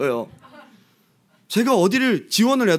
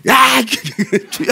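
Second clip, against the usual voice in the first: sharp call; 5 semitones higher, 5 dB louder, slower than usual. Retold or imitated. Someone nudges him while praying.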